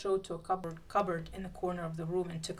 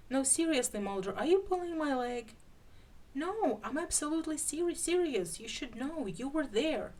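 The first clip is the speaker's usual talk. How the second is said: louder, higher insisting; incredulous protest; 7 semitones higher, 3 dB louder than usual. Acted. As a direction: protest earnestly, voice raised. Disbelieving exchange, raised voices.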